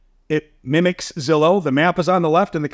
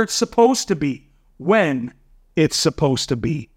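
reading a prayer. Retold or imitated. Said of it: "This is my serenity prayer".

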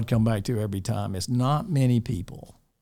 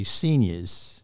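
imitated Southern "seniors"; Southern accent; 2 semitones lower than usual. Dean mimicking an older teacher respectfully, Southern accent. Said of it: "he had a kind of Southern accent".

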